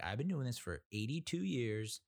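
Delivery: mock pushy mover. Mocking the mover's exaggeration.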